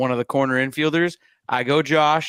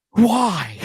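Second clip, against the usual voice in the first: imitating crying son; 8 semitones higher, 4 dB louder than usual. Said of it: "he just looks at me and he goes".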